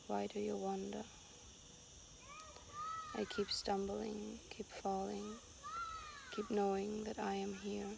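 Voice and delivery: even, unhurried poem recital; poem reading. Acted. Poet reads the text written while hiking, unhurried recital. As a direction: leave long pauses between short lines.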